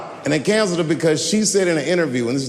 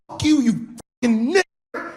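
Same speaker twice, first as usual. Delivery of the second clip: put-on high cocky teen slur; 8 semitones higher than usual. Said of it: "He said".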